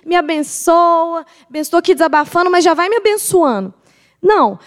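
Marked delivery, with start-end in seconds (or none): 0.1-2.5 mock pleading prayer. Believer asking the Lord for a blessing, mock pleading. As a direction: act out begging for a blessing. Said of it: "não é que você vai ali pra pedir".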